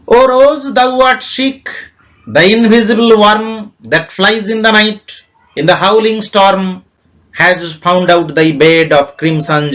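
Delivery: slow, solemn reading of the verse; a slow measured poetry reading voice; poem recitation. Acted. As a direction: draw each line out like a recital.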